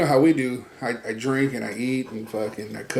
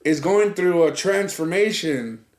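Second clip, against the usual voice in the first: dramatic friend; 6 semitones higher than usual. Retold or imitated. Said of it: "He was like".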